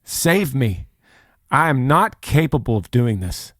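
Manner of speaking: mildly acted plea for rescue; imitated surrendering plea. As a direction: plead as one handing over a burden. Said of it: "in a posture of".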